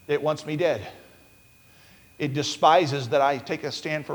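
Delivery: preacher quietly sharing his own family's struggle; hushed confession. Real, not acted. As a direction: drop to a near hush to confide.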